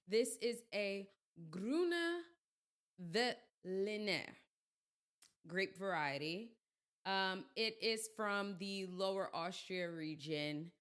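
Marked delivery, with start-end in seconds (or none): 0.0-6.5 a light, playful put-on Austrian accent on the wine name; hint of Austrian accent, hammed up for fun; mock Austrian accent. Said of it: "Let me throw on my Austrian accent".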